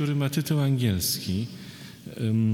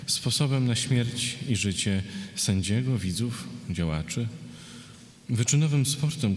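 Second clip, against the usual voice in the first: verse read phrase by phrase; poetry reading. Acted. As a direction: read a list poem with pauses between images. Poet reads a poem. (czytanie wiersza, z pauzami)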